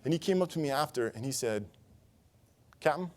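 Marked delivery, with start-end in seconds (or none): 2.8-3.1 put-on Southern accent. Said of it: "in his southern accent that I'm gonna butcher".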